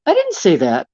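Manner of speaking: a hint of the president brushing it off; lightly voiced president, half-laughing denial; mock president denying it. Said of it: "the president".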